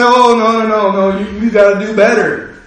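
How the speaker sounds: teasing rebuke, put on lightly; mock God scolding. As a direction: play God wagging a finger, half in jest. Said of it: "what's God gonna say".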